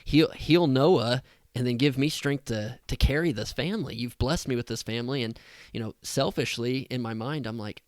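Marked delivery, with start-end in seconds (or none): 0.0-5.2 pleading prayer. Retold or imitated. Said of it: "I kept saying".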